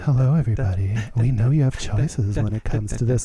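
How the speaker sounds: very low, sultry, seductive put-on sexy voice. Imitating how he greeted everybody over lounge music, Adam's put-on sexy voice. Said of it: "you can tell he puts on his sexy voice and he's like".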